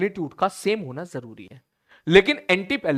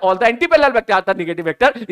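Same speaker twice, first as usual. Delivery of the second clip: rattled-off statement, words run together; deliberately fast; 2 semitones higher, 4 dB louder, slower than usual. Shown as a demonstration. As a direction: race through it like a hurried teacher. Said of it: "मैं जानबूझ के fast बोल रहा हूं". (जानबूझकर जल्दी-जल्दी बोलना)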